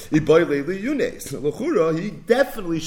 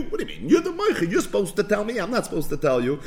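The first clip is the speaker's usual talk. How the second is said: incredulous buyer; 5 semitones higher than usual. Retold or imitated. Buyer retorts to seller's complaint.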